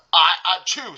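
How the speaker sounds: loud build-up into a sneeze; mock sneeze, loud on the build-up; acted sneeze. A narrator's reading.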